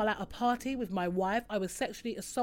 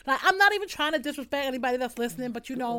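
a bit higher, louder, fast, chirpy alter ego; put-on alter-ego voice; 3 semitones higher, 4 dB louder, faster than usual. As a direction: rattle it off as your showy older ego. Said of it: "this is how she talks".

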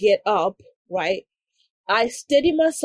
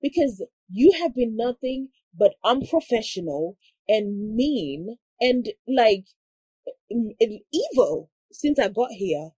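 losing it; 2 semitones higher than usual. Retold or imitated. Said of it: "I lose it".

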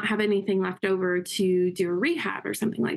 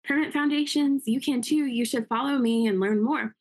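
imitating a Southern accent, pitched higher; Lisa's Southern accent; 6 semitones higher than usual. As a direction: play Lisa greeting her TikTok followers in a sweet Southern accent, voice up high. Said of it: "She's got the greatest Southern accent".

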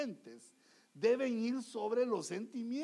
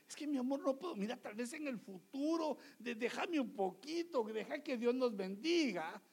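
acted gentle plea in a raised pitch; coaxing husband; 4 semitones higher than usual. Husband persuades his wife to wait for the car, gently pleading. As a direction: sweet-talk her into waiting. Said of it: "se la convence de decirle".

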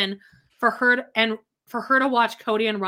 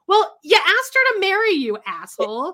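higher, louder scolding jab; mock scolding; 9 semitones higher, 4 dB louder than usual. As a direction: call him out loud. Scolding Cody mockingly.

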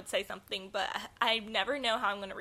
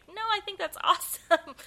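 sarcastic mock praise; 10 semitones higher, 3 dB louder than usual. Mock reaction in retelling.

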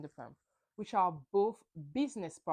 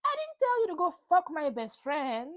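louder, higher, accusing line; imitating an angry outburst; 8 semitones higher, 5 dB louder than usual. Ariana confronting the cheater, retold with mock anger. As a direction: throw the betrayal back in his face.

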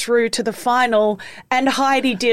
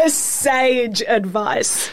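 laughing; much slower than usual. Real, not acted. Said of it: "Sage, I would say".

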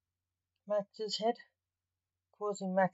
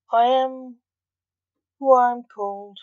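grim reaper voice; 5 semitones higher, 10 dB louder than usual. A narrator's reading. The Reaper speaks.

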